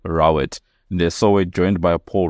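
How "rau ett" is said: "Rowett" as RAU-et, with OW as in cow; repeating corrected pronunciation. Shown as a demonstration. Host confirming guest's surname, OW sound in "Rowett". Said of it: "It's pronounced Rowett".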